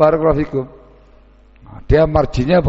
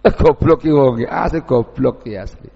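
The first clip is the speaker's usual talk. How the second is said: mocking gossip. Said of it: "di masyarakat begitu bahasanya".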